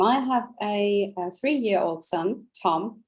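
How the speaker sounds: usual speaking voice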